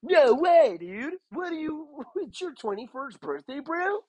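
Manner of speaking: very high put-on bro voice; hammed-up amazement, loud start then lighter; super loud waiter. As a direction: imitate an excitable dude waiter. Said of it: "he's, like, super loud".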